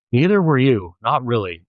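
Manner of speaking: a sharp snap, voice up; snapped. Acted. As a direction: bite the words off at her. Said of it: "Liz snapped".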